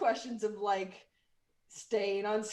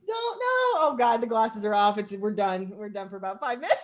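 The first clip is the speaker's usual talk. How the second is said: laughing; 6 dB louder than usual. Real, not acted. Losing it laughing.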